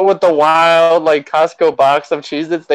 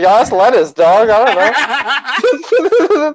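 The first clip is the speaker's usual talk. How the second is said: mock innocent; 8 semitones higher, much slower than usual. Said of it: "You're like".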